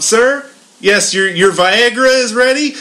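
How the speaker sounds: mock very loud call. Retelling how a man called across the aisle, the speaker acts out the loudest voice ever. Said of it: "probably in the loudest voice I have ever heard".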